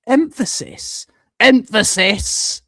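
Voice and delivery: "Emphasis" pushed out syllable by syllable; emphatic catchphrase. Acted. Streamer quoting a TV show to viewers, emphatic. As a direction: quote it with exaggerated stress on "Emphasis". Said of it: "if you've ever seen Drake and Josh".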